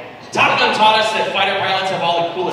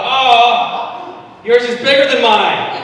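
blurted out loud; 6 semitones higher, 6 dB louder, much slower than usual. Retold or imitated. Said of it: "and I said out loud".

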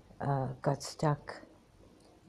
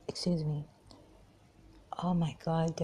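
whispered aside; 5 dB quieter than usual. Real, not acted. After clearing throat mid-recording.

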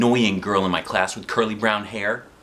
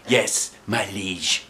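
slow, solemn little squire; bow and answer the knight gravely; mock squire; much slower than usual.

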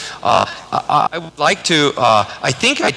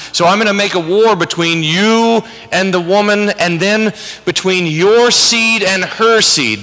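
God rebuking; 4 semitones higher than usual. Acted. Teacher voicing God confronting Adam and Eve, stern and raised. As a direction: scold them like an angry father.

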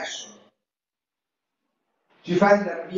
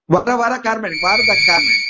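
urgent, louder call to look; excited calling; 5 semitones higher, 6 dB louder than usual. Real, not acted.

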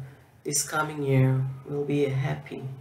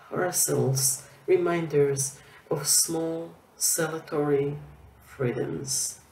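measured verse reading, phrase by phrase; poem recitation. Acted. Poet ending with a new poem about last year, measured recitation. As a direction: recite with deliberate pauses between lines.

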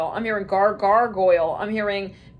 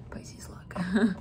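whisper; 2 semitones lower, 7 dB quieter than usual. Acted. Aside to viewers.

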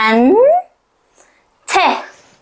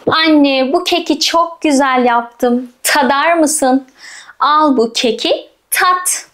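put-on child voice; much slower than usual. Voicing a child offering cake.

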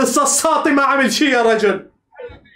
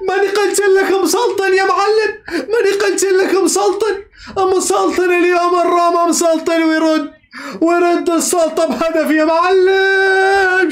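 laughing triumphant shout; 2 semitones higher than usual. Real, not acted. Fan gloating to viewers after the goal, laughing and shouting. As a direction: crow "I told you" between laughs.

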